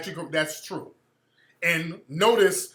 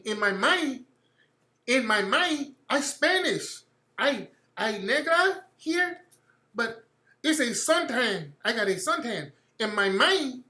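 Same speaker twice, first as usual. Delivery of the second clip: mocking Dominican man; 2 semitones higher than usual. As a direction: lay on a mock broken-English Dominican who insists he is Spanish. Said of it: "they were like".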